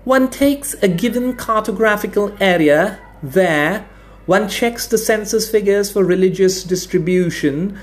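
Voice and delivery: high, pompous professor voice, slowing at the end; lecturing academic. A narrator's reading. Academic demonstrating the map to officials, high and smug. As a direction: drone on like a self-satisfied expert. Stout academic explains drawing borders.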